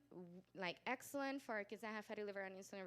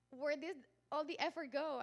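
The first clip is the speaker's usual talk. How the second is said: higher, louder exasperated lament; mock tearful wail; 6 semitones higher, 6 dB louder than usual. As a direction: retell it as a crying complaint. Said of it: "I cried. I'm like".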